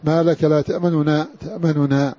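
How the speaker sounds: تأمننا with the first nun's vowel only half said; تأمننا بالاختلاس; two nuns, first vowel snatched. Shown as a demonstration. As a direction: say تأمننا as ta'manuna, clipping the first u. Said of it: "والمراد بإخفاء حر-، النطق ببعضها".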